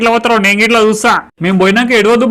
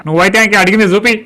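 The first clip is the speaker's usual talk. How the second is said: repeated order shouted. Acted. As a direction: shout the order again at the clerk.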